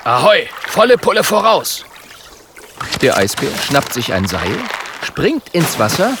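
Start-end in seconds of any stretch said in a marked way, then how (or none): 0.0-1.8 high, loud sailor's cry; rousing, happy shout; joyful call. A narrator's reading. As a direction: cheer the crew onward. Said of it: "ruft Björn freudig".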